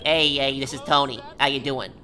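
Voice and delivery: lightly put-on New Yorker accent. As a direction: play at a typical New York accent. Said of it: "like, a New York accent".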